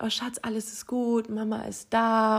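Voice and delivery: softly retold comforting of a baby; gentle, hushed reassurance, slowing at the end; soothing mother. Mother to her crying newborn, gently soothing.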